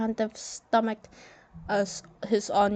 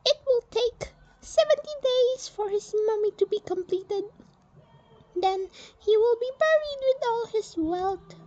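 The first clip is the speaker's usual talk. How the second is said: a much higher, firm general announcing the burial; stern general voice; 14 semitones higher than usual. Acted. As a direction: speak as a proud Egyptian general, high and set.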